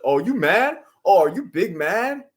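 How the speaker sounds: high-pitched, drawn-out taunt; sing-song mock questions, rising high; mocking troll imitation. Mimicking the troll's taunting replies.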